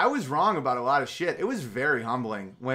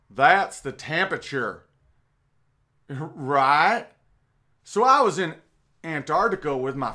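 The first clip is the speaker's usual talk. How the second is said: Al Gore impression; 5 semitones higher than usual. Mocking Al Gore presenting his temperature chart and Antarctica story, Southern accent. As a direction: put on a mock Southern politician voice. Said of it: "I'm just doing a generic Southern accent".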